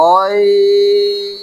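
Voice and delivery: "অইন" sustained very long on a high steady pitch; long held Ain. Shown as a demonstration. Teacher answering "কি কি?" with a long high "অইন". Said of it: "কি কি?".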